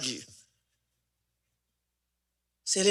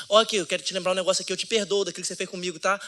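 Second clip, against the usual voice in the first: mock self-righteous forgiving; much faster than usual. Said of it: "chega pras pessoas e fala assim".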